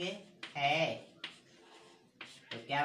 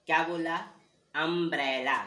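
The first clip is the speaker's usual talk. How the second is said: "अम्ब्रेला" said louder; loud teaching call; emphatic umbrella; 6 dB louder than usual. Shown as a demonstration. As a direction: call out "अम्ब्रेला" to the class, stressing the first vowel. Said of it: "स्वर की पहली ध्वनि".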